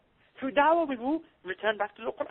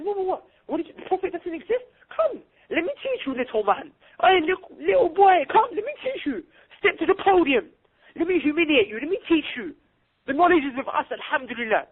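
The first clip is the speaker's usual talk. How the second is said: confident sahaba challenging a debater; 5 semitones higher than usual. Acted.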